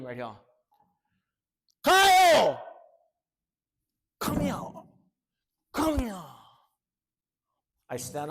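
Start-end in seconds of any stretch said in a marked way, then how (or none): 1.8-6.2 loud high call across the cell block; big man bellowing from his cell. Retold or imitated. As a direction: yell his name up high. Bunkie calling from the cell.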